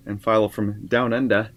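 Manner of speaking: a light, playful Australian accent on Down Under. Shown as a demonstration. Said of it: "That's my Australian accent".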